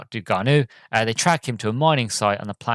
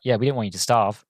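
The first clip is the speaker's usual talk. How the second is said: flat, unbothered matter-of-fact reply; calm deadpan. Retold or imitated. Javik calmly answering Liara's question, in mock deadpan. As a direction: toss it off like it's nothing special. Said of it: "Javik's just really calmly, deadpan, is like".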